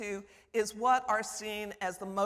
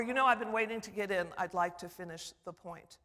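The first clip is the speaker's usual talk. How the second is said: quick, firm polite interjection; polite but firm. Shown as a demonstration. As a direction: politely insist on finishing. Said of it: "in a polite way to say".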